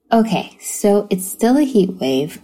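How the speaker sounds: bathroom echo on the voice; recorded in a small echoing bathroom. Real, not acted. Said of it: "recording this in the bathroom".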